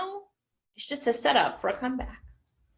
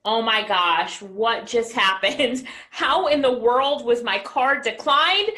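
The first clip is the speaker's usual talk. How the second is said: retold disbelief; slower than usual. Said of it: "And I'm like".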